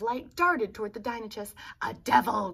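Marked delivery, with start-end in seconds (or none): 1.8-2.5 a touch of a scared yelp; frightened cry. Acted. Dinochus cries out at the glittering eyes, mildly scared. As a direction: cry out in mild alarm. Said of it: "cried Dinochus".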